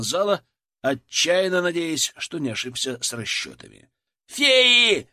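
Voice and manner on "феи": loud, high panicked scream; desperate yell. A narrator's reading. Soldier spotting the aliens, screaming in panic. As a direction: scream the alarm in sudden terror. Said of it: "отчаянный вопль Ларионова".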